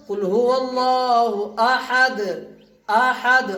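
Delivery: slow recitation, अहद halted on a bare d; अहद without "un". Shown as a demonstration. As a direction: stop each अहद on d, never adding "un". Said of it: "अहदुन नहीं पढ़ा है". (अहद को दाल की आवाज़ पर रोकते हुए)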